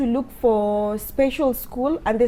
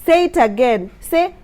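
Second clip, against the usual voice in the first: imitating her bossy daughter; 3 semitones higher, 4 dB louder than usual. Daughter ordering everyone around.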